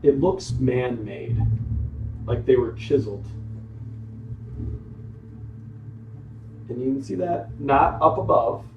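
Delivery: measured storytelling in separate phrases; game master narration. Acted. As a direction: describe the scene to your players, pausing between details. Game master sets scene.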